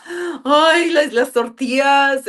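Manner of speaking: mock lament. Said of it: "he's like".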